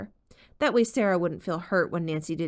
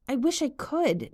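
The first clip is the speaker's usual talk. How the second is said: sincere; 8 semitones higher than usual. A narrator's reading. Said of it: "Nancy said sincerely".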